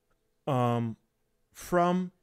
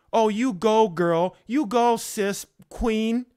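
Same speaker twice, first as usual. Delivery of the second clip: higher and louder, hyped cheering; mock flattery; 5 semitones higher, 3 dB louder, slower than usual. Preacher mocking flatterers cheering a friend, mock hype.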